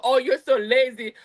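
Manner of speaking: lightly mocking scolding husband; a touch of a nagging husband. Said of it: "I don't know why this is, this tone".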